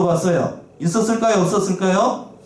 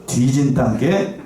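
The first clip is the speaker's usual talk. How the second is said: Jeolla dialect; much slower than usual. Retold or imitated. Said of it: "네, 전라도 말이죠".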